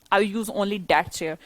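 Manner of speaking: "only" picked out in a very slow, deliberate line; measured, slow stress on "only"; slow emphasis. Shown as a demonstration. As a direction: spell it out slowly, weighting "only". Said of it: "only का मतलब है stress देके बोल दिया".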